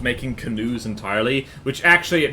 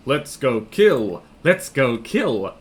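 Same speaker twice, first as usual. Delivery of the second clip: slow gleeful villain chant with a laugh; sneering panto villain; 3 dB louder, slower than usual. Acted. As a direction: savour each word like a cartoon baddie.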